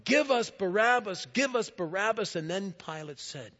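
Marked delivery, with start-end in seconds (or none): 0.1-2.3 louder, higher mob chant; crowd shouting. Retold or imitated. The crowd answering Pilate, loud chant. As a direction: chant it like a crowd demanding the prisoner. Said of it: "the crowd just cried out more and more".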